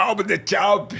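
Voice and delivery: bad, high Austrian accent in English. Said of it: "ele nem tinha um sotaque bom também".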